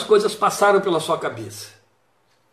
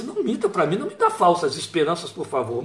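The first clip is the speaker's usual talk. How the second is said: stunned plea; 4 dB quieter than usual. Acted. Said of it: "Ela ficou abismada".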